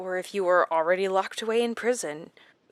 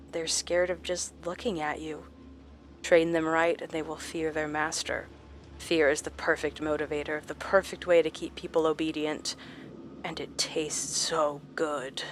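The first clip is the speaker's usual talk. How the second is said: gloating doctor; 3 dB quieter than usual. Acted. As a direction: savor it like a predator. Doctor gloats about fear.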